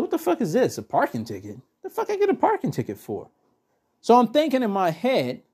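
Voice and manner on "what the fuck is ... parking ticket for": retold disbelief. Telling friends about the ticket, incredulous disbelief. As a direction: replay the shock of the ticket. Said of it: "And I was like".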